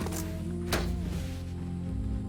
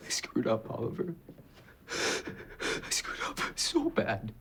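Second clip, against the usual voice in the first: breaking down; 3 semitones higher, slower than usual. Acted. Breaking down in confession.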